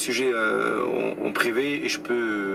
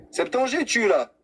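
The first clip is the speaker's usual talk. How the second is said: calling out; 10 semitones higher than usual. Real, not acted. Host calling for absent caller.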